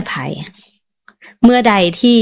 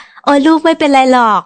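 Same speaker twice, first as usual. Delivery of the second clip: mock supermom calm; 5 semitones higher than usual. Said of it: "ไม่ได้เป็นยอดมนุษย์คุณแม่".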